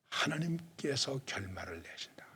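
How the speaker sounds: "하나님께서 결말을 내신다" drawn out slowly, phrase by phrase; slow, deliberate quotation with space after "하나님께서"; slow scripture quote. Real, not acted. Preacher citing scripture to the congregation, slow and deliberate.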